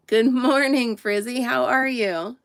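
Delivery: lightly cooed sing-song greeting to a pet; pet talk. Real, not acted.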